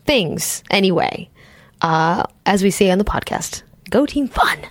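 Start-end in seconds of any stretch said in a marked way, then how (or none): 3.9-4.6 high peppy chant; cheerful cheer. Acted. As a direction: cheer it like a slogan. Podcast catchphrase sign-off.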